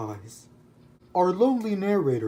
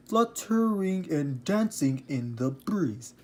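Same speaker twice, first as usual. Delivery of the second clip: poem recital. Shown as a demonstration. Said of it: "Listen here".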